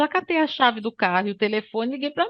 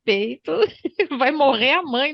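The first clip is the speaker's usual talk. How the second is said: mock panic; 3 semitones higher than usual. Mother retells her fear, laughing.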